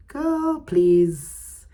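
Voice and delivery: put-on high, drawn-out "girl" then a firm "please"; sassy girlfriend scoffing at the past; sassy dismissal. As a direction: brush it off with attitude. Dismissing old need for validation.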